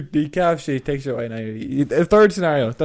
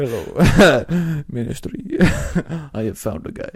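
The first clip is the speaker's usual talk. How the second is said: put-on German accent; 3 dB louder, much slower than usual. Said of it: "I can't do a German accent".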